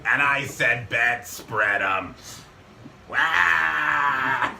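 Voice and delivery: put-on slow, bitter old smoker lady; smoker's voice. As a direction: drawl it out like a jaded old star. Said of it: "that smoker's voice".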